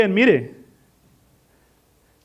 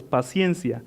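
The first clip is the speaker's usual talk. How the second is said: hushed emphasis; 8 semitones lower, 7 dB quieter, slower than usual. Acted. Closing word of the point.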